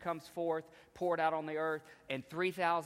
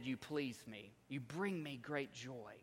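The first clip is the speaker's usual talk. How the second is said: softer, slow and tender; tender affirmation; 2 semitones lower, 8 dB quieter, slower than usual. Acted. God the Father affirming his child, tenderly. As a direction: speak it softly, as a loving father would.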